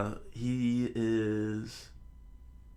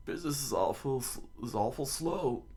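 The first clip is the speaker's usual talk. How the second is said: dog's owner; 3 semitones higher than usual. Acted. Acts owner in dog's flashback.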